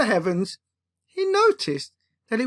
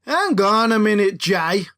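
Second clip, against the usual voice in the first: sniping; 2 semitones lower than usual. Acted. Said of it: "Miller sniped back over his shoulder".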